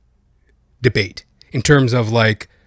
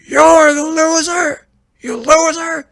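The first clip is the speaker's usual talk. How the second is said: high and louder, slow jab; mock Biden telling off; 6 dB louder, slower than usual. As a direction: snap back in the squeaky Biden voice, louder. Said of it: "He told Trump off".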